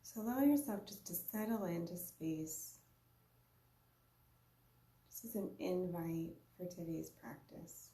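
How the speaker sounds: unhurried meditation guide, long pauses between phrases; guided meditation. Real, not acted. Yoga teacher guiding listeners to observe their breath, unhurried guided meditation. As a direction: lead a breathing practice in short, spaced-out invitations.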